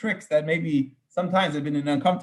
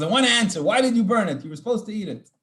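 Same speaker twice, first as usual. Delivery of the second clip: mock scream; 4 semitones higher than usual. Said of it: "Moses is screaming at Aaron's sons".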